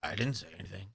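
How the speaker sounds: very soft, low, unbothered reply; drowsy zen calm, barely voiced. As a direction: answer quietly as if in a food coma. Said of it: "comes off as zen".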